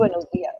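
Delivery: dias without the stress on its I; wrong stress demo. Shown as a demonstration. Teacher correcting a student, dias said without stress on its I. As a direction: copy the learner's misplaced stress on dias. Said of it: "Not buenos dias".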